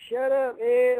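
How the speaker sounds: mock sibling telling-off; lightly acted irritated brother; annoyed brother. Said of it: "my brother like".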